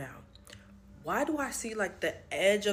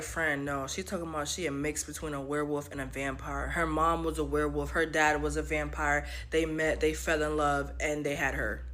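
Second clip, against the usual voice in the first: lightly voiced homie, lower pitch; earnest male friend; 4 semitones lower than usual. Homie explaining a hybrid to his friend, low and serious.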